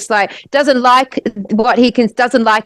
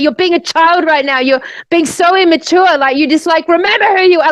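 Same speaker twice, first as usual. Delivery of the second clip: higher-pitched mock telling-off; retold angry scolding; 5 semitones higher than usual. Angry friend scolds her for acting immature, retold with higher pitch. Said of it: "like, really angry".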